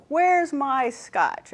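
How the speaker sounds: mild mock parrot squawk; loud parrot squawk. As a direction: drag it out like a cranky parrot. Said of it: "the parrot squawks loudly".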